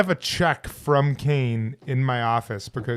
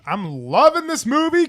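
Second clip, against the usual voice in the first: put-on high, gushing valley girl; 11 semitones higher, 5 dB louder than usual. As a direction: gush like a teen girl. Mock valley girl enthusiasm.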